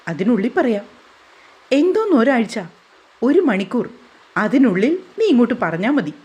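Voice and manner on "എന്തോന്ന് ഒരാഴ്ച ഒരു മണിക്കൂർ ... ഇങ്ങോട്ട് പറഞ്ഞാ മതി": indignant mother. Acted. Mother overrides son.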